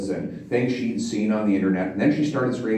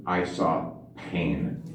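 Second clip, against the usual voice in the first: softer and slower, a hushed reply; retelling the wife's hushed answer, softly and slowly; quiet, slow; 7 semitones lower, 7 dB quieter, much slower than usual. Retold or imitated. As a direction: let the words drop gently, slowly.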